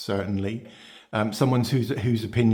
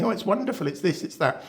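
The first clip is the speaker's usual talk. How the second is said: mock gushing endorsement; 9 semitones higher than usual.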